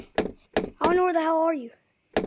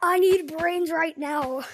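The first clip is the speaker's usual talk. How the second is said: zombie voice; slower than usual. Retold or imitated. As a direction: drag it out like a hungry zombie. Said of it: "Why do you say brains?".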